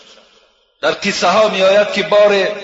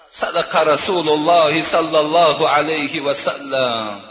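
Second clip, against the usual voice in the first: reverent Arabic recitation; 4 semitones lower, slower than usual. Acted. Reciting Arabic formula in sermon.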